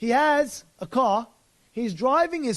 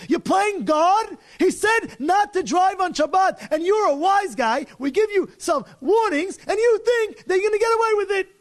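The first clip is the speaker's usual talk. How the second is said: heated confrontation; 8 semitones higher, 3 dB louder than usual. Retold or imitated. Court officers confronting the Sabbath driver, loud and stern. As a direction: lay down the verdict. Sinner then judges confront.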